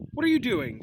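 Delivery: a hint of a mild professor's voice. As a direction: ask it gently, not like the caretaker. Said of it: "in a very different voice than Filch".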